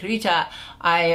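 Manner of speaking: lightly attempted French accent; bad French accent. French client addressing the coach, lightly faked French accent. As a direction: imitate a Frenchman, a hint of accent. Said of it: "bad French accent".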